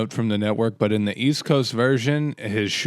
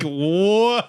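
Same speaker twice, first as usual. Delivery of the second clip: surprised; 8 semitones higher, 3 dB louder than usual. Retold or imitated. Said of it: "I was like".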